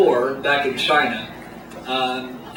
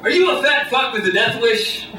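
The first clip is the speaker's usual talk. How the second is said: lightly voiced boardroom pitchman; a hint of corporate presenter, increasingly emphatic; marketing guy. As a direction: pitch it like an ad executive, building to a slogan. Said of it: "the marketing guy, the Don Draper type".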